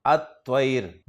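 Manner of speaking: अत्वैर said at-ṭair with a doubled t; अत्वैर: held double t, lam silent; Arabic article demo. Shown as a demonstration. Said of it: "लाम को नहीं पढ़ेंगे".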